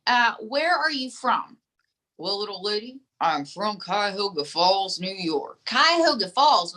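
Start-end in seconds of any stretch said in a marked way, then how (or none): 2.2-5.6 lightly voiced drawling dummy accent, slightly lower; ventriloquist dummy's drawl accent. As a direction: answer slowly in the dummy's put-on accent. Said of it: "with an accent like that".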